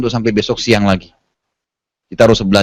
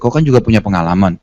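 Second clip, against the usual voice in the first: devil whispering; 6 semitones lower than usual. Retold or imitated. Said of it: "setan bisikin".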